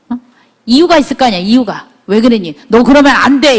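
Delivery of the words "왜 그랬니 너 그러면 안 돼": blaming parent's reproach; scolding. Shown as a demonstration. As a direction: scold the child for doing wrong. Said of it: "이게 아니라".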